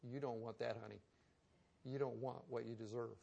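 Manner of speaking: a hint of soft, gentle parental reassurance; gently soothing a whining child, voiced lightly; God soothing a complaining believer, softly; tender reply. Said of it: "with that plaintive face and say".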